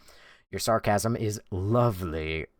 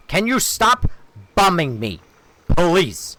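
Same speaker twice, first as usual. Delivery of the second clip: high, loud plea; exasperated yell; 10 semitones higher, 9 dB louder, slower than usual. Real, not acted. Streamer yelling at a player who keeps attacking him, exasperated. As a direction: shout at the attacker to quit.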